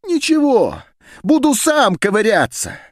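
shouting out. A narrator's reading. Heifitz shouting defiantly while leaving down the corridor. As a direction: hurl it back over your shoulder. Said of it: "выкрикивал Хейфиц".

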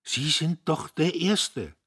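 a father fighting tears; holding back sobs. Acted. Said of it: "das Schluchzen unterdrücken". (unterdrücktes Schluchzen, leise)

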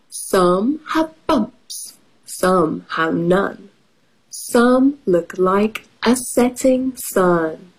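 slow rhyming picture book read; reading to children. Acted. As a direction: read the rhyme to little kids. Reads picture book aloud.

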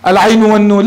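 العين والنون as two full letter names; name each letter, العين then والنون; spelt by letter names. Shown as a demonstration. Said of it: "لا نقول في عن". (نطق العين والنون بأسماء الحروف)

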